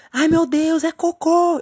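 high, loud panicked cry; re-enacted desperation. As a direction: play up the horrified discovery. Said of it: "Eu desesperada". (grito desesperado, encenado)

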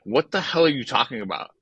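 imagine a touch of anger at a clueless hitter; mad, imagined quote. Retold or imitated. Ted Williams imagined scolding the hitter, mildly mad. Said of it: "mad at him and been like".

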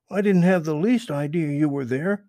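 put-on high, eager young rabbit voice; Peter Rabbit voice. Peter explains to Mister Toad, high and eager. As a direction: pitch it up high like a small rabbit. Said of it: "continued Peter".

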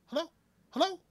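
high, loud, fast outraged plea; yelling at the screen. Retold or imitated. Fan yelling at the dying hero on screen, outraged. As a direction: shout at the movie to wake him. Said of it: "I'm looking at the screen like".

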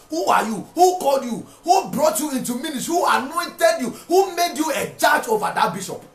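rising rebuke. Real, not acted. Preacher shouting rebukes at disrespectful young ministers. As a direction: hammer each question harder.

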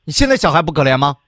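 rapid rebuke to the caller; challenging retort. Real, not acted. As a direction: push back hard, hurried. Host challenges caller sharply.

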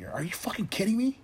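squeaky high mock teenager; hammed-up outraged teen; mocking a teenager texting her friend; mock teen girl. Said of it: "Like that".

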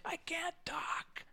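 high, breathless whisper of a man who lost his voice; mock voiceless croak; hoarse whisper. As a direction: whisper like your voice is gone. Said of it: "He's like".

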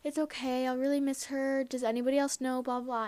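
mildly imitated holding back tears. Retelling her reply to friend's mom, holding back tears. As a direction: retell it with a touch of held-in tears. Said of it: "trying to hold back tears".

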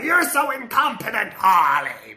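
hammed-up scolding shout; Joker yelling. Joker scolding Harley, mock angry yell. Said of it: "he's like".

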